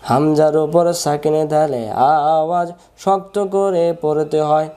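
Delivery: slow, measured sing-song drill; rule recited for students. Shown as a demonstration. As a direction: chant the rule with drawn-out vowels. Chants the rule. (সুর করে নিয়ম মুখস্থ করানো)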